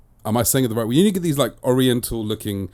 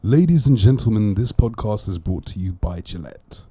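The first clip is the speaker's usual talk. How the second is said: mock sponsor announcer; 5 dB louder than usual.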